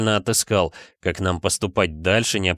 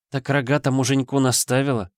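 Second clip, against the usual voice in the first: put-on giggly drunk; 5 semitones higher than usual. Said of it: "Пьяно хихикнула она".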